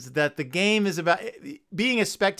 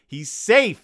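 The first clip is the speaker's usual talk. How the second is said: mild mock yell; 4 semitones higher, 4 dB louder than usual. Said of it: "yells Grizzly Gramps".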